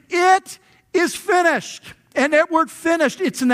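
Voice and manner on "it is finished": high, loud, slow cry; yelled cry. Retold or imitated. Preacher voicing Jesus's last cry on the cross, high and loud. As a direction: call it out with everything left. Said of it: "and he yells".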